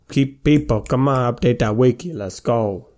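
put-on Italian mobster accent, slipping through. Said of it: "Nathan's stuck in an Italian mobster accent".

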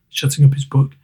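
plain reading voice

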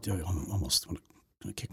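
whispered to himself. Real, not acted. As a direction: mutter it under your breath. Muttering to himself while remembering.

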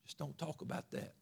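very soft, hushed shushing; hushing. Acted. Enemy silencing believers about the Lord, hushed. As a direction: shush them under your breath as the enemy. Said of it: "The enemy wants you to".

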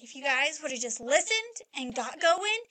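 retold rant, pushing up on each item; retold yelling. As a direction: rattle off the scolding in an imitated yell. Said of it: "Yelled and yelled and yelled".

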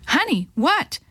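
high, scratchy, alarmed yell; scratchy panicked yell. Acted. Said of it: "he yelled, his voice scratchier and higher".

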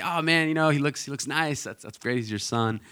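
imitating polite, sweet praise, starting high. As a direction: let them down kindly with mild enthusiasm. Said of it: "Allie's just really sweet".

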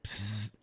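short hissing psst like radio static. Retold or imitated. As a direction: hiss out a quick burst of static. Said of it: "you get this little blast of static".

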